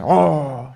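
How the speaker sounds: drawn-out, unconvincing "oh" of fright; mock manly scream. Shown as a demonstration. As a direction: fake a scared yell without any real fear. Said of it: "Con una voz así, hombre". (grito de susto poco creíble)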